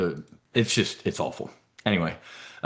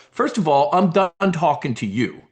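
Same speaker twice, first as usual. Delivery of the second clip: mafia don; 4 semitones higher than usual. Pretend. A mafia boss telling negotiators he's done talking, mildly raised. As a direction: lay down the law like a Jersey don. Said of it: "That's how a don would talk".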